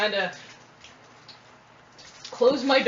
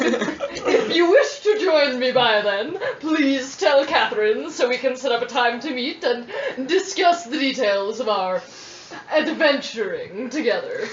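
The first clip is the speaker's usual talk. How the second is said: bright squeaky sing-song welcome; 2 semitones higher than usual. Acted. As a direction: read it sweet and sing-song. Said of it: "In character".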